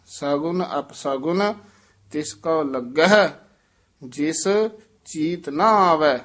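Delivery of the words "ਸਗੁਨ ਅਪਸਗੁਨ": ਸਗੁਨ ਅਪਸਗੁਨ said lightly, no stress; ਸਗੁਨ ਅਪਸਗੁਨ softened, unstressed syllables; soft pronunciation. Shown as a demonstration. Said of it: "ਪੋਲੇ ਹੀ ਉਚਾਰਨ ਕਰਨੇ".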